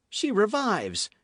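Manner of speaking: joy breaking through; relieved cry. A narrator's reading. D'Artagnan seeing her wake, relieved cry. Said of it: "cried the young man".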